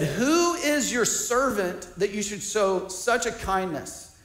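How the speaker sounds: retold humble plea, sinking away at the end; self-defeating. Mephibosheth answers King David's kindness, self-defeating. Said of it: "self-defeating thoughts like that".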